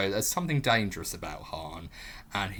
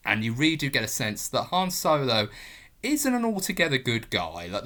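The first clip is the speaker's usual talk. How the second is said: ordinary delivery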